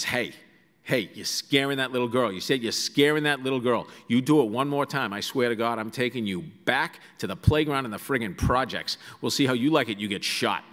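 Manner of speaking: a hint of a Boston mother threatening, offhand; mild Boston accent, scolding; Boston mom scolding. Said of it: "That's the voice I try to capture".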